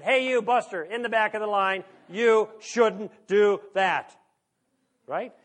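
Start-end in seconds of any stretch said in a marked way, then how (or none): 0.0-4.2 loud, slow call-out to the back of the line; indignant raised voice; scolding a line-cutter. Retold or imitated. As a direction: tell Buster off across the bank.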